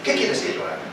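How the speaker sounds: súplica temerosa, baja al final; un Saulo asustado que casi se queda sin voz; temblando y temeroso. A narrator's reading. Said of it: "temblando y temoroso". (Saulo tembloroso se rinde ante el Señor)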